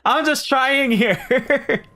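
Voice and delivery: high, exasperated plea, stretched out; defensive protest. Real, not acted. Streamer defends the country accent attempt, high and defensive.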